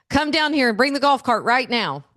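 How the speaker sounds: mock the kid's panicky summons, pushing the words out; urgent demand. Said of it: "and he goes".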